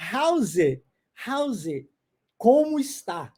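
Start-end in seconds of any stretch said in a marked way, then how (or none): 0.1-1.9 "How's it?" run together with no T; casual linked "How's it?"; swallowed T. Shown as a demonstration. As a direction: say "How's it?" smoothly, the T gone. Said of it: "também não pronuncia o G".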